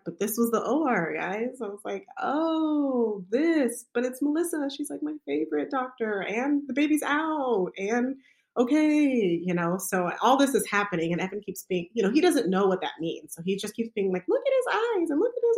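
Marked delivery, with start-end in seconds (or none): 2.2-9.4 anxious self-talk. Retold or imitated. Panicked self in labor. 14.3-15.6 gushing proud dad. Retold or imitated. Husband gushing over baby.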